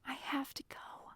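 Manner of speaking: soft, breath-filled whisper. A narrator's reading. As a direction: whisper it so nobody else hears. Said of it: "I whispered".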